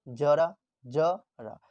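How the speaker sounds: जरा said with a plain ज, slowly; drawn-out जरा with a ज as in जल; जरा without nukta. Shown as a demonstration. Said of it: "अगर जरा में बिंदु दे देते हैं". (बिना नुक्ता वाला जरा, धीरे से)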